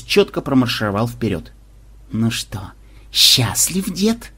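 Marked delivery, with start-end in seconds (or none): 2.1-4.3 sly, mocking little jab; a drawn-out snide tease. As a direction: needle him with a smirk. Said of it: "ехидно осведомился".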